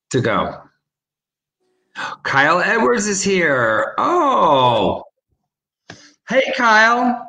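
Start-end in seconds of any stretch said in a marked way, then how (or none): none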